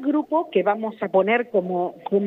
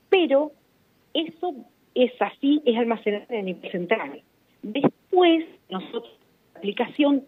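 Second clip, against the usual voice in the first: choppy phone line dropping out; signal breaking up; 3 semitones higher than usual. Real, not acted. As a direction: voice cutting in and out over a bad line. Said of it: "ahí se pierde la señal".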